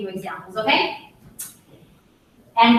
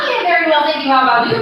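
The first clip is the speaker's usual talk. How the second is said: stiff textbook English; 3 dB louder, much faster than usual. Shown as a demonstration.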